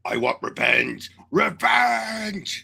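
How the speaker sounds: slow, then a shouted cry; vengeful roar. Retold or imitated. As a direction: roar for revenge. Hulk quoted wanting revenge.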